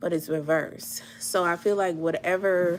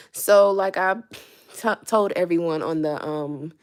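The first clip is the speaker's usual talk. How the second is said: winded, catching breath between words; 3 dB louder than usual. Real, not acted. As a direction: speak while still out of breath. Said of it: "I'm kinda out of breath".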